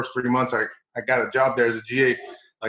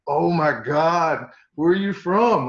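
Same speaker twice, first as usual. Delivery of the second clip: slow, drawn-out then much higher; amazed players; 5 semitones higher, slower than usual. Retold or imitated. USC players hear the coach's accent, amazed and high. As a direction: play the gobsmacked young player.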